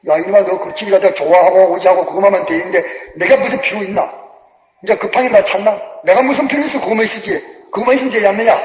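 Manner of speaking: lightly voiced God jeering; understated scornful taunt; mocking God. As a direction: taunt him in mild scorn. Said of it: "주님이 비웃는다 해서 비웃어".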